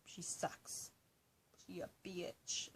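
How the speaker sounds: mock whisper. Joking insult about her mom.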